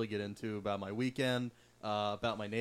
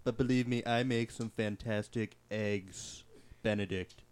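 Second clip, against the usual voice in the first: Trump impression; 3 semitones lower, slower than usual. Trump impression, imposters bit.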